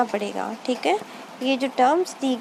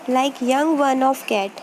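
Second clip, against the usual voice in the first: slow dictation; much slower than usual. Shown as a demonstration. Teacher dictating a question.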